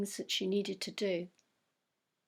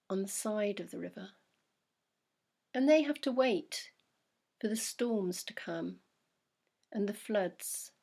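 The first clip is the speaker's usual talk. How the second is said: guided meditation. Acted. Therapist guiding listener to sit by the river, calm. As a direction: guide them gently into stillness.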